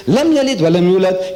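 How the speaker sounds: very fast Arabic recitation; Quranic recitation. Shown as a demonstration. Preacher reciting the Quran to his audience, rapid. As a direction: run the verse off in one quick breath. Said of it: "he doesn't talk like this".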